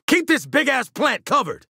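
high-pitched combat shout; urgent order. Acted. Ordering squad to cover the plant, urgent shout. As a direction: bark it across the battlefield.

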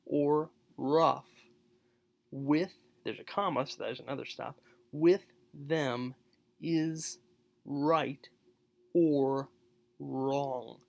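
loud, word-by-word with pauses; "right or wrong" split apart, each word punched; stops between words. Shown as a demonstration. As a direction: break on every word, especially right and wrong. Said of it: "you have to stop between the R's".

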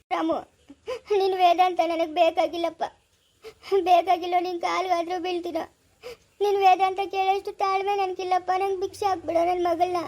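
crying, begging rebuke; sobbing plea. Acted. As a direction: beg through sobs. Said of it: "ಯಾಕೆ ಅಳ್ತಾ ಇದೀಯ ನೀನು?". (ಅಳುತ್ತಾ ಬೇಡುವುದು)

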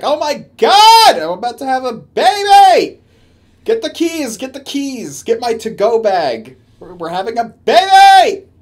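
hammed-up mom-to-be yelling about the keys; frantic labour panic. Streamer mocking a panicked woman in labour, shrieking. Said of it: "Or were you like".

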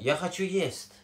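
Russian phrase "یا خچو یست" spoken slowly; slow teaching demo. Shown as a demonstration. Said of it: "فعل خوردنه".

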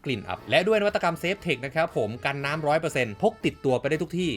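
steady, rehearsed ad-read voice; sponsor ad read. Acted. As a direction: read out the sponsor spot smoothly. Reads out sponsor ad. (อ่านสปอตโฆษณา)

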